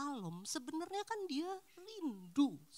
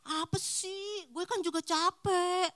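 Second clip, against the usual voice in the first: higher, louder, slower annoyed retort; irritated refusal; 9 semitones higher, 8 dB louder, slower than usual. Pretend. Tired spouse snapping back at a massage request. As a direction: push the request away, fed up.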